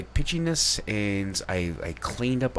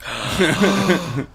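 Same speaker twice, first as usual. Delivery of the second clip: excited gasp; 4 semitones higher, 9 dB louder, slower than usual. Real, not acted.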